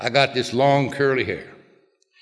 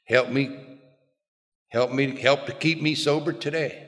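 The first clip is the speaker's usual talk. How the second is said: soft, halting plea; simple prayer; 5 dB quieter than usual. Retold or imitated. Newly sober man kneeling to ask for help, simple prayer. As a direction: pray it simply and quietly, with pauses. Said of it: "and I simply said".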